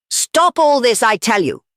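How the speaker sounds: high-pitched, urgent outburst; frantic cry. A narrator's reading. Gregory to the anarchist meeting, frantic cry. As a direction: cry it out in a frenzy. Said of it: "cried Gregory with frantic face".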